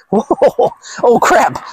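high startled cry; mock panicked girl. Mocking a panicked girl, high yelp.

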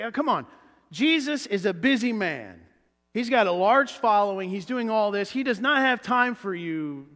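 mildly acted stern rebuke; stern telling-off. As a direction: shut down a pest, impatiently. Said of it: "sternly telling him to be quiet".

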